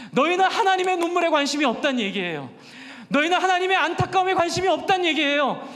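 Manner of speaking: rebuking sermon, building intensity; preaching. Acted. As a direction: call out the Pharisees from the pulpit. (꾸짖는 설교)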